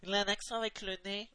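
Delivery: nasal accent. Shown as a demonstration. Mimicking a film character's odd accent for friends, nasal accent. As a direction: imitate an accent through the nose. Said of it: "Tu vois, il parle comme ça".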